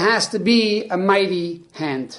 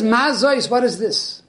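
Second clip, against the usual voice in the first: excited; 3 semitones higher than usual. Acted. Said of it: "He's all excited".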